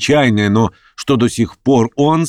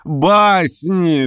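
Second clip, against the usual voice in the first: exclaiming; 9 semitones higher than usual. A narrator's reading. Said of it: "вскричал я".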